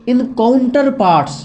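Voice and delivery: very slow, spaced words; slow dictation. Shown as a demonstration. Teacher dictating the legal term slowly. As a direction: lay out the term carefully. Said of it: "teacher dictates term slowly".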